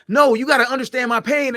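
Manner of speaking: mock plea. His own demand quoted.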